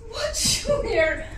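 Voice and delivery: slow tearful cry of his name; a scared woman crying to Junior. Acted. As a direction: sob it out, pleading. Frightened woman breaks down.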